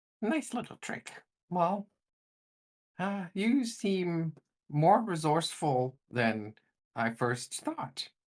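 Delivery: very high, tiny, impish little voice. Narrator voices a little voice from the staircase: small voice. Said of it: "that little voice rang out".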